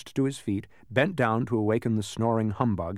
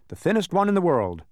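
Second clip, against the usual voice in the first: high, louder, cheerful answer; bright reply; 8 semitones higher, 5 dB louder than usual. A narrator's reading. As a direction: answer brightly, proud of the title. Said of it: "he replied brightly".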